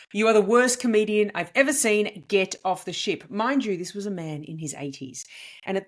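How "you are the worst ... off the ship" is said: raised-voice heckle, moderately louder; retold bellow. Comedian quoting the heckler at the back of the lounge, mock bellow. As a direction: imitate a heckler bellowing, held back a little. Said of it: "this voice bellows out".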